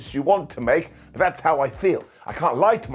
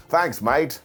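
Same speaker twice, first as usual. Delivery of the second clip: lightly put-on Australian thanks; a hint of Australian; Australian accent. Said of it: "she's Australian now".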